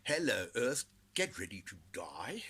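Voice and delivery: a politician's blunt doomsday address; mock announcement. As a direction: announce doom, then breathe it. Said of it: "politicians ... saying".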